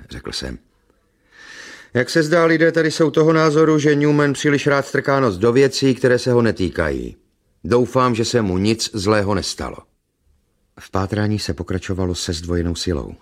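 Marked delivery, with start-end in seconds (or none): 1.9-9.8 higher, louder character voice; high, forceful voice easing off at the end; agitated dialogue character. Acted. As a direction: raise the voice, pressing the point.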